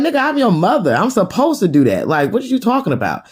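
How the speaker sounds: high-pitched scolding retort; indignant mother. Retold or imitated. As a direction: act out a mother pulling rank. Mother's indignant retort in retold quarrel.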